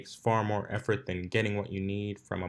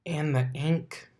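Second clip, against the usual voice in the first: demanding; 6 semitones higher, slower than usual. Acted. Dash bossing her clone.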